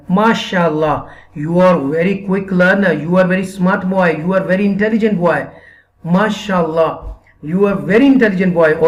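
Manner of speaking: slow, encouraging praise for a little learner; praising a child. Shown as a demonstration. Tutor praises a child after each correct word, slow and encouraging. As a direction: lay the praise on slowly and kindly. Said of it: "آپ نے اس کو appreciate کرنا ہے".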